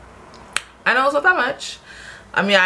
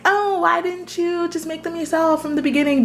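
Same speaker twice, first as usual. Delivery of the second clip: mocking a viewer; 10 semitones higher than usual. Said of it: "And before you ask".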